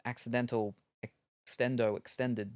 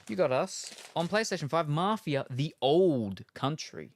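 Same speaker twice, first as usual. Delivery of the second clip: excited announce; 4 semitones higher, 5 dB louder than usual. Real, not acted. Reading the gifted game, excited title reveal. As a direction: build it up like a game trailer.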